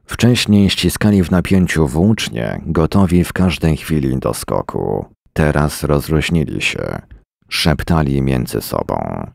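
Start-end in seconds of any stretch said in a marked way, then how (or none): none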